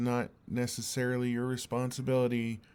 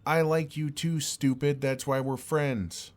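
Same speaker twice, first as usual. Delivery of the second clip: louder and higher, fond but fed up; exasperated confession; 4 semitones higher, 5 dB louder than usual. Acted. Friend finally blurts his feelings, loud affectionate exasperation. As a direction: shout the confession, then slow down.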